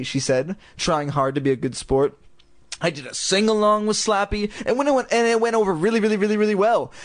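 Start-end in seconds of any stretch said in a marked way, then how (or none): 2.8-6.9 gushing. Acted. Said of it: "Lindy gushed".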